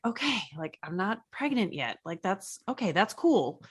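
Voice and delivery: soft, understated retold relief; quietly relieved. Telling cohost how not being pregnant felt, quietly relieved. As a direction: reassure yourself quietly, dropping the volume. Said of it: "like, relief".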